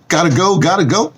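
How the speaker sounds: high, chanted gotta go; playful high-pitched farewell chant; sing-song exit. Real, not acted. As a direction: sing it out high as you leave. Signing off, hurrying away.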